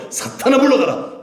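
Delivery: high, forceful banishing cry; emphatic command of dismissal; commanding rebuke. Shown as a demonstration. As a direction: drive it away, voice leaping up. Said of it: "하셔야 돼요".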